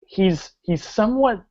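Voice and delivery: animated scene setting with drawn-out action words; dramatic tabletop storytelling; game master narration. Acted. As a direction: paint the action vividly, stretching key verbs.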